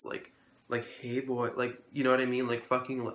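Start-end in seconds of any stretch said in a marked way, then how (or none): 1.0-1.5 lightly imitated flamboyant greeting; a hint of a campy teacher's hello. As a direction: mimic him with slight flamboyance. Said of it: "exactly how I'm saying".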